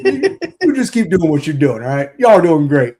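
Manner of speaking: lightly voiced gruff coach; a hint of a gruff coach calling a player over; Hey Weirdo bit. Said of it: "yours was better than mine".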